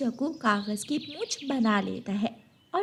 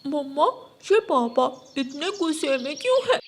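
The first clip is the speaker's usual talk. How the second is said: put-on child asking mother; 4 semitones higher than usual. Child asks mother about father.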